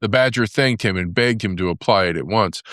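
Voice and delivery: usual speaking voice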